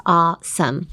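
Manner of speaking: "awesome" opening on one long "ah"; long "ah" pronunciation. Shown as a demonstration. Host teaches the spelling AWE as one sound, long "ah" in awesome. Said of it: "もう一気にあーです".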